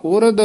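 ਉਰਦ ending in an aspirated dh; ਉਰਦ with dhadda. Shown as a demonstration. Teacher modelling ਉਰਦ with dhadda for the pupil. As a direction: say ਉਰਦ with ਧ, not ਦ. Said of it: "ਧੱਦੇ ਨਾਲ".

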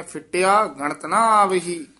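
ਫਿੱਟਿਆ with a hard doubled ṭ. Shown as a demonstration. Teacher showing students the doubled consonant in ਫਿੱਟਿਆ. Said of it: "ਫਿੱਟਿਆ ਪਦ ਤੇ ਯਮਕ ਲਾ ਕੇ".

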